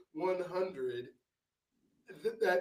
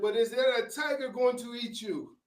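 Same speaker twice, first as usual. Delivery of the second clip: playful concierge; 7 semitones higher, 6 dB louder than usual. Retold or imitated. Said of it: "He said".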